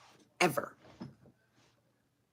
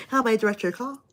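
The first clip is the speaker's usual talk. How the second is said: receptionist voice; 5 dB quieter, much faster than usual. Retold or imitated. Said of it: "I just made you a receptionist".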